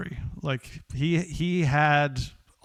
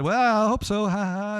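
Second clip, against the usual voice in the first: chuckling reply; 7 semitones higher, 4 dB louder than usual. Retold or imitated. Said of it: "kinda chuckled and said".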